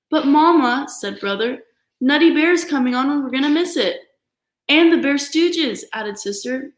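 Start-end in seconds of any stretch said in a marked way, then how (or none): 0.1-0.9 pleading cub. Acted. 2.0-4.1 whiny cub. Acted. Cub protests losing TV show. 4.7-5.8 high, slow, drawn-out cub plea; pleading little cub. Acted. Little sister adds her plea to Mama, high and slow.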